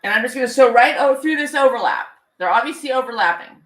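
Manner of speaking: talking around pins in mouth. Real, not acted. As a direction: mumble through pins held in mouth. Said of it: "don't swallow the pins".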